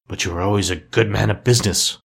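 mildly hesitant, understated; faltering. A narrator's reading. Scrooge trying to console the ghost, mildly faltering. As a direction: offer it uncertainly. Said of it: "faltered Scrooge".

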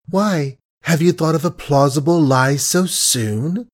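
sugary, barbed question; sweet on the surface, cutting beneath; mild honeyed sarcasm; sweetly mocking. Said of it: "she queried sweetly".

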